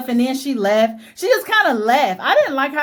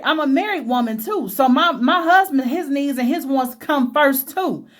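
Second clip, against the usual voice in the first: tender wife's apology. Pretend. Wife reassuring her husband she still comes home first, tender. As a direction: talk it through gently to him. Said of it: "I would have been like".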